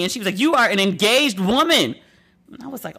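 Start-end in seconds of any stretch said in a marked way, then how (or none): 0.4-2.0 a hint of a scolding mom, higher pitch; lightly voiced mother putting her foot down; mock-stern retold reprimand, pitched up.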